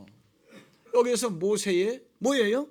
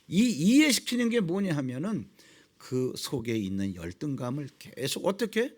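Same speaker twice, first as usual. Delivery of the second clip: ordinary talk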